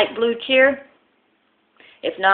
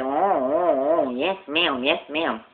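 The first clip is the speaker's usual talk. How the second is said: flustered lisping salesman; slower than usual. Acted. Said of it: "he talks with a lisp".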